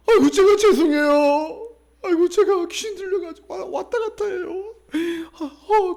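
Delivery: very high sobbing apology; imitated tearful wailing. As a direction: wail it like a distraught woman. Voices sobbing possessed woman apologising.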